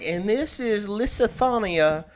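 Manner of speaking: slow, high, drawling Southern mock; hammed-up Kentucky witch voice; Southern accent. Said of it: "thick Southern accent".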